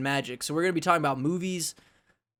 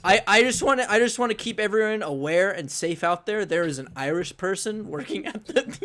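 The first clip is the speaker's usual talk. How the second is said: higher, mock-earnest public warning; public PSA; 4 semitones higher than usual. Host warning everyone about a cashier, mock PSA. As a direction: announce it like a safety notice. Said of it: "like, a public P S A".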